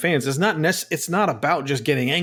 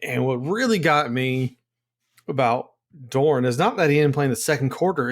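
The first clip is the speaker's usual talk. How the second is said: ordinary delivery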